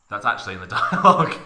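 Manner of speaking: fast, laughing disbelief; amused aside, rushed through laughter. Real, not acted. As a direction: crack up at the text mid-sentence. Reader's aside about the text.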